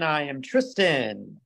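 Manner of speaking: slow, unsure self-introduction; hesitant. Real, not acted. Host introducing himself on the podcast, hesitant. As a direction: drag out the name as if not quite sure. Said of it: "sounded a little hesitant".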